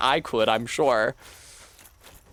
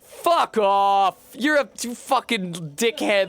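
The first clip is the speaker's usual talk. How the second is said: put-on Welsh accent; 5 semitones higher, slower than usual. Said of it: "Welsh accent".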